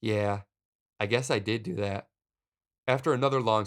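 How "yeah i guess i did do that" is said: deadpan, unreacting reply; understated, vacant admission; blank. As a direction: answer blankly, giving nothing away. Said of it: "with a real blank stare".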